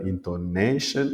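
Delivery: intonation with the NA drawn out; stress on second-last syllable. Shown as a demonstration. English teacher showing tonic accent, stressed NA in intonation. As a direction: slowly lean on the NA in intonation. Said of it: "sur l'avant-dernière syllabe qu'il faut mettre l'accent".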